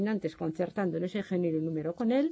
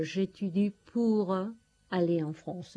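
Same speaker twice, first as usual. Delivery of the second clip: ejemplo en francés; slower than usual. Shown as a demonstration. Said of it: "hago algo con un objetivo determinado".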